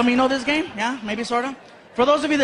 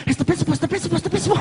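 put-on higher, rushed kid's alarm rising at the end; panicked kid; 8 semitones higher, much faster than usual. Son warning dad in a higher, panicky kid voice. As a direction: repeat it faster and more scared each time. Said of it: "he's like".

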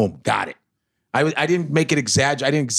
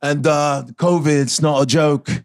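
Idris Elba impression; slower than usual. Shown as a demonstration. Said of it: "Idris Elba in you".

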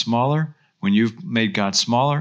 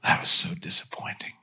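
whispered, quietly disappointed teacher; very softly; 4 semitones lower, 5 dB quieter than usual. Retold or imitated. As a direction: breathe it out like a calm, let-down mentor. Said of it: "very softly".

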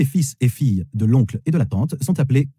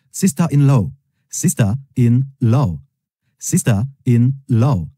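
slow model word; much slower than usual. Shown as a demonstration. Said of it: "Cela signifie belle-sœur".

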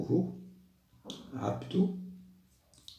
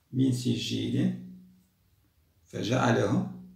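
Quran recitation; slower than usual. Acted. Teacher reciting the surah aloud to pupils. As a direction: recite each verse slowly for the class.

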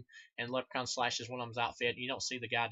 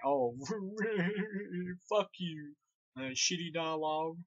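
laughing, higher mock retort; laughing scoff; 7 semitones higher, slower than usual. Reviewer mocking the movie's cheesy dialogue, laughing and higher. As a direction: laugh it off and jeer at the line. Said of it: "And I'm like".

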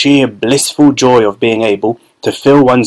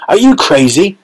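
shouted; 7 semitones higher than usual. A narrator's reading. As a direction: cut in indignant. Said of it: "shouted a woman".

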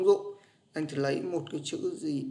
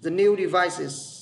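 very slow, every word given its full sound; teacher reading an example phrase slowly; slow model reading; 5 dB louder, much slower than usual. Shown as a demonstration. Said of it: "tự động hệ thống phiên âm của anh nó sẽ đọc".

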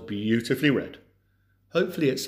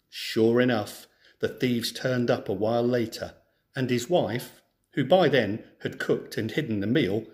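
clear, lively storybook reading; story narration; 3 dB louder than usual. Acted. Teacher reads a folk tale to schoolchildren, storybook narration. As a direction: read the tale to a class of children.

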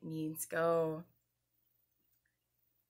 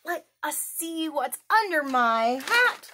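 playful reveal; 7 semitones higher, 9 dB louder than usual. Acted. Teasing reveal to children.

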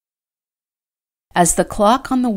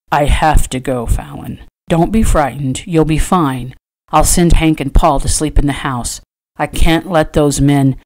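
loud, firm man's voice; firm rancher husband; 5 dB louder than usual. Acted. Trader telling his frightened wife he must go, firm. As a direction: insist on going while reassuring her.

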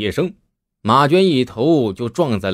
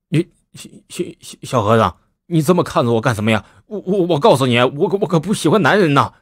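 nervous stammer; faster than usual. Acted. Zhao stammers, unnerved by stare.

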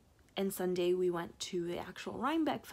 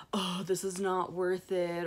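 mildly imitated grumbling in line; slow mock complaint from the crowd; grumpy; 4 dB louder than usual. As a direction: lightly act out a fed-up queuer. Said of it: "people were grumpy".

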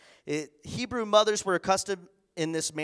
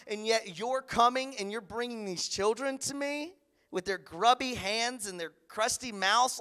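higher, haughty, self-important put-down; snobbish disdain; 6 semitones higher than usual. Retold or imitated. People who see the outcasts as a waste of time, higher and snooty. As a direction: sneer like someone too busy for kids.

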